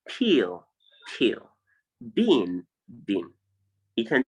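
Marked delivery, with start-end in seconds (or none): 0.1-1.5 peel with a long EE, then shorter; long and short vowel. Shown as a demonstration. Teacher showing students the difference in vowel length, long then short. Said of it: "One is long". 2.1-3.3 bin with a long EE, then short I; long and short vowel. Shown as a demonstration. Teacher showing students the difference in vowel length, long then short. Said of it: "one is short".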